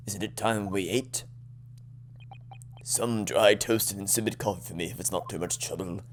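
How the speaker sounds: low, soft, listless request; mildly moping breakfast order; gloomy Sholmes. Acted. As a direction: ask for breakfast without any joy. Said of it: "Depressed Sholmes".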